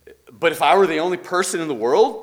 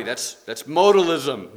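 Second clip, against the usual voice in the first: a hint of a Scottish accent, slow and a bit louder; slip of Scottish accent; 4 dB louder than usual. Teacher calling out a heresy, hint of Scottish accent. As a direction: lean lightly into a Scottish accent on modalism. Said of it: "almost use a Scottish accent there".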